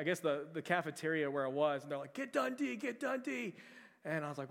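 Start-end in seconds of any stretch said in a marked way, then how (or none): 2.1-3.5 put-on high, urgent kids crying out for Dundee; excited children summoning their hero; kids calling out. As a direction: call him over like panicked campers. Kids calling for camp counselor.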